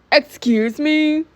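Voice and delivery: drawn-out, high-pitched indignant question; slow, incredulous squeal; offended disbelief. Acted. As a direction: stretch it out high, affronted. Security reacts to insult.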